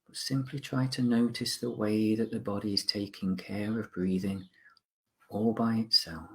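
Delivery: calm, measured mindfulness guide with long pauses; guided meditation. Acted. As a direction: gently guide listeners to notice the present, unhurried.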